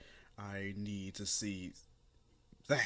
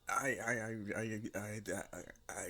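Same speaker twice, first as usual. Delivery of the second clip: flustered mumble. Acted. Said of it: "just mumbling to herself".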